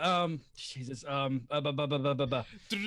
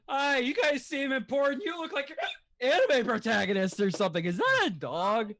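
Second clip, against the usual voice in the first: put-on lightly slurred drunk passer-by; hiccupping drunk off the street; 4 semitones higher than usual. Random drunk NPC greeting the party, lightly tipsy. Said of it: "random drunk N P C off the street".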